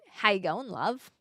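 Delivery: lightly put-on Aussie accent; a hint of Aussie in a greeting; Aussie accent attempt. Shown as a demonstration. Streamer practicing for viewers, tentative Aussie accent. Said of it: "doing an Aussie accent turns me Kiwi".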